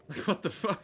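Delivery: high-pitched baffled outburst; shocked disbelief; surprised. Real, not acted. Baffled by bot ad.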